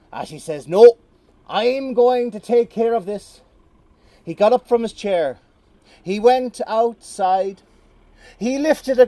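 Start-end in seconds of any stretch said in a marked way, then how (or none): 0.7-3.4 determined shout. Acted. Atty refusing, determined.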